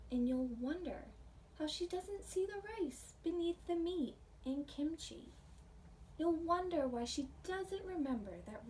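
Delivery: gentle read-aloud storytelling voice; picture book reading. Acted. Teacher reading a picture book to her pre-K class, storytelling voice. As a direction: read the story warmly to little kids.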